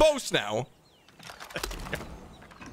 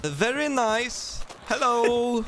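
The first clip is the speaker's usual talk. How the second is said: put-on lightly done Swedish accent; slow goofy Swedish fire marshal; 4 semitones higher, slower than usual. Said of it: "that Swedish accent".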